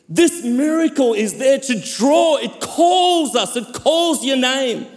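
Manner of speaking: emphatic sermon delivery with weighty pauses; impassioned preaching. Real, not acted. Preacher proclaims God's grace to the church, impassioned preaching. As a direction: preach with rising, swelling cries and hushed drops.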